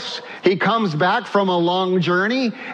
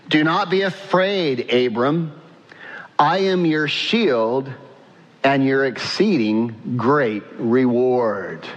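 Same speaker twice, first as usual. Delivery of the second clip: scripture reading; 4 semitones lower than usual. Real, not acted. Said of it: "Read 'em out loud".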